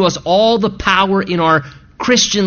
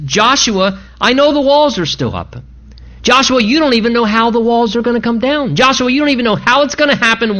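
higher-pitched, insistent reassurance; assured certainty; 5 semitones higher than usual. Acted. Preacher voices God promising Joshua the victory, insistent and certain. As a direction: press the promise home with conviction. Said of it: "So God speaks in faith".

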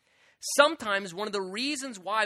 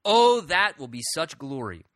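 quoted rhyme; 5 dB louder than usual. Retold or imitated. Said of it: "one man said this".

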